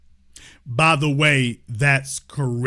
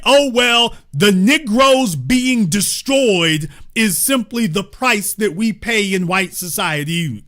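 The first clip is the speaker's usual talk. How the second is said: mock complacent voice; 5 semitones higher, 4 dB louder than usual. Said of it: "you figured".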